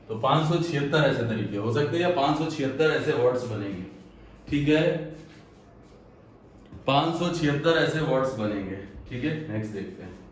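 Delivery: winded, breathing hard between words. Real, not acted. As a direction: talk while catching your breath. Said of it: "बहुत सांस फूल रही है".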